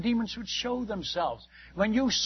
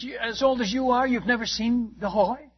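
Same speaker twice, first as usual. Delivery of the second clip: higher, mock-disbelieving question; incredulous; 5 semitones higher than usual. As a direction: mimic his amazement, lightly. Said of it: "He can't believe this".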